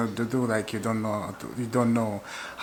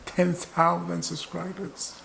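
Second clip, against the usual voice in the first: higher, slow mock-tearful plea; mock crying plea; 7 semitones higher, slower than usual. Vlogger begging viewers for subscribers, mock tearful. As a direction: beg for subscribers with fake tears. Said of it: "I'm crying for that".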